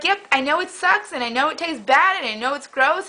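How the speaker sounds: upbeat, rising, unbothered admission; breezy like a happy host; cheery. Retold or imitated. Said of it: "she was cheery like".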